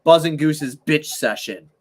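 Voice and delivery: slow announcer title read. Shown as a demonstration. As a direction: announce the segment name slowly. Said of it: "it'll just say".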